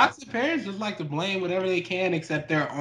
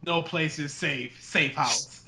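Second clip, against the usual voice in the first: horror trailer voice; 3 semitones lower, 5 dB quieter than usual. Retold or imitated. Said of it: "That is the actual title".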